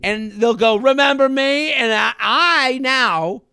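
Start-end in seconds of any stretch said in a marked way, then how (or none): 0.8-1.7 aggressive greeting. Retold or imitated. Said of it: "such an aggressive way".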